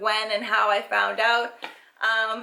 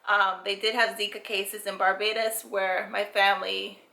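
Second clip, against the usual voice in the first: short of breath while talking; winded, catching breath between words. Real, not acted. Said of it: "Sorry, I'm out of breath".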